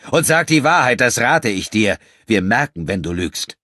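threatening warning. Acted. Enrico warns him.

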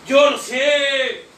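slow, loud "Yo lo sé" hammered home; shouted declaration. Real, not acted. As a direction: declare it to the room, every word heavy. Firm declaration at the podium. (afirmación gritada y lenta)

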